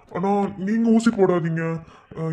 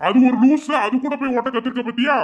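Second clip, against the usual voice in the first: angry scoff; 5 semitones higher than usual. Acted. Brother scolds sister about her scooter teacher. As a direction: spit out the insult.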